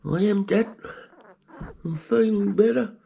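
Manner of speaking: squeaky high little-rat voice, cheerful; pet rat's voice. Pretend. Pet rat Greggy answering his owner, squeaky and high. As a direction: answer Dad as a tiny proud rat.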